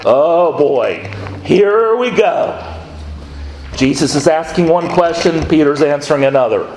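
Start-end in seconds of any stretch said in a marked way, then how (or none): 0.1-2.6 a high, drawn-out "here we go" of mock dread. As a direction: groan as if trouble is coming. Preacher groans at coming trouble.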